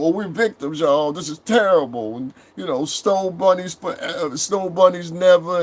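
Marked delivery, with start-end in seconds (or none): 0.0-2.2 put-on woe-is-us complaint; mock victimhood. Mimicking online victim talk. 2.8-5.6 higher-pitched mocking imitation; put-on complaining, pitched up; mock victimhood. Mimicking online victim talk.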